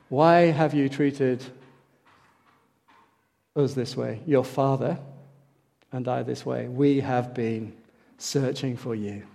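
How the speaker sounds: slow, low, softly voiced quote; hushed reproach. Preacher voicing Mary's words to her son, hushed reproach.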